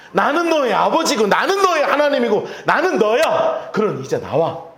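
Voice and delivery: drawn-out, high, earnest reassurance, building then easing; warm divine calling. Acted. God as father calling hidden Adam out, warm and pleading. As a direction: coax the frightened one out of hiding. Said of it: "따뜻하게 부르시는 음성이에요".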